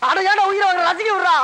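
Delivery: high-pitched impatient complaint; exasperated. Acted. Man wanting to watch scolds friend, exasperated. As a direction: tell off the pest spoiling your fun.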